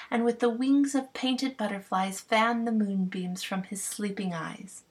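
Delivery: a hint of a smitten queen; lightly voiced fairy queen. Titania voiced.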